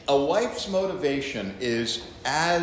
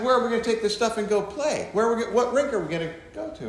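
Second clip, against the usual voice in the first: eager son; 8 semitones higher, much faster than usual. Acted. Son pressing father.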